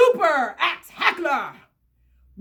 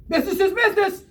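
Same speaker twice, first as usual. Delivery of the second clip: greedy laugh; 2 semitones higher, much faster than usual. Acted. Laughs at his own greed.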